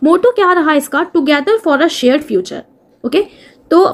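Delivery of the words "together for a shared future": dictation pace. Shown as a demonstration. Teacher repeating motto slowly.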